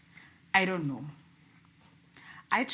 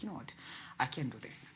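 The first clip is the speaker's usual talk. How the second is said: tired, quiet giving up; 5 semitones lower, 9 dB quieter than usual. Retold or imitated. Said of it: "I was like".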